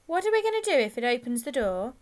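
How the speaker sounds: sudden anxious, loud question; worried gang member. A narrator's reading. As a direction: blurt it out as a worried boy. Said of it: "said one of the others suddenly".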